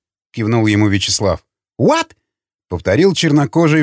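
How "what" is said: very high rising "What?"; shrieked squeal. A narrator's reading. Offended man repeating his question to the prisoner, shrieked squeal. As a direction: squeal it in disbelief. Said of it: "взвизгнув".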